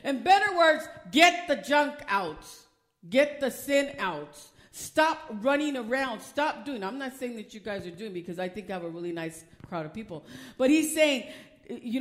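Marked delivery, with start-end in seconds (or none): 1.1-6.8 slow, punched command to the congregation; emphatic exhortation. Acted. Preacher commanding the church to get rid of sin. 6.8-10.2 quick soft aside. Real, not acted.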